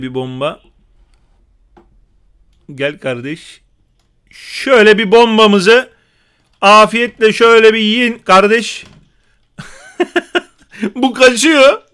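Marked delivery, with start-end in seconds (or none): 4.3-8.8 taunt. Real, not acted. Taunting enemies with bomb. 10.1-11.8 laughing, higher and slow. Real, not acted. Gamer laughing at an enemy running away, amused.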